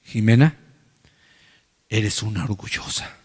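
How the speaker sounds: quiet staring-down accusation; looking her in the eyes. Shown as a demonstration. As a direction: say it straight to her face, quietly. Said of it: "Mirándola a los ojos".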